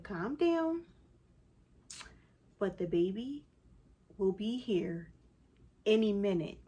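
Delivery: re-enacted calming talk in short phrases; measured calm. Mother telling husband the baby is coming, measured and halting. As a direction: spell it out steadily, pausing between phrases. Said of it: "I'm talking just like this".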